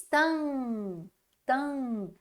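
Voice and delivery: Tan com o an bem nasal. Shown as a demonstration. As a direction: leve o an pro nariz em Tan. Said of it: "faz o sonzinho ir pra dentro do nariz". (som nasal em Tan)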